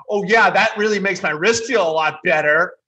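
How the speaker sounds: high, whiny mocking voice; whiny Bryson. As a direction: whine it like a petulant golfer. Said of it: "he said that in that whiny voice".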